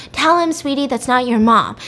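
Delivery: mildly frantic acted plea; retold freaking out. Woman pressing Ethan despite police, mildly frantic plea. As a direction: press the child, pitch lifting at first. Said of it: "so she starts freaking out".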